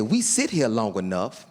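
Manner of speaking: low, slow, hushed wonder; slow and low, like sharing a secret; reverent Tim. Retold or imitated. Tim's reverent robin description.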